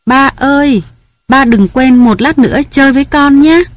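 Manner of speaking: a small daughter coaxing her sleepy father; lightly voiced little girl; little girl's voice. A narrator's reading. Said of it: "có tiếng nói khẽ".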